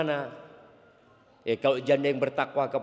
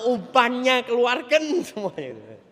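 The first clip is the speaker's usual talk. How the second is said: laughing; 6 semitones higher, 5 dB louder, slower than usual. Real, not acted. Laugh heard mid-line.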